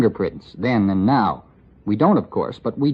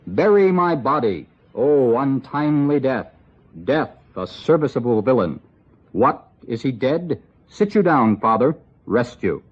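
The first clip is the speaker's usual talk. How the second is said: mock Shakespearean acting. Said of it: "forgive my horrid acting".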